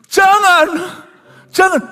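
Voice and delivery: high loud panicked begging; frantic pleading. Retold or imitated. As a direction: cry out in fear. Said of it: "Lah sini kan gemeter".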